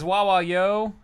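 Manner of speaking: put-on Philly accent. Reads chat in Philly style.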